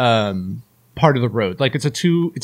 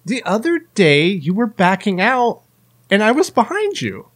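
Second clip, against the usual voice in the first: high, sing-song neighbor voice, pitched up; mock chirpy neighbor; 5 semitones higher than usual. Imitating the stay-at-home mom's passive aggressive greeting, high and sweet. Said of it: "She's like".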